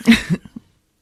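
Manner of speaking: high yelp of disbelief; captain's startled outburst. Retold or imitated. Retelling the captain's panic, high startled yelp. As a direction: shriek it like a stunned captain. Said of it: "The captain's like".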